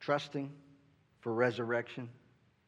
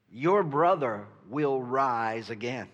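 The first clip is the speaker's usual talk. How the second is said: solemn Jesus; 2 semitones lower, slower than usual. Acted. Jesus voiced, slow and solemn.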